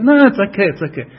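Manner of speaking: high, loud "no" easing off; breezy brush-off, starting high and emphatic; dismissive. Retold or imitated. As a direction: imitate someone waving away a concern. Voicing people who shrug off rules.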